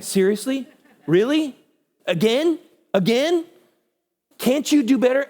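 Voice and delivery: high, exasperated questioning; frustrated. Acted. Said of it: "He was just frustrated".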